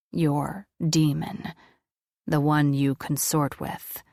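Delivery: low, slow and measured, ancient being; solemn deep voice of an angel. Acted. Angel presses her.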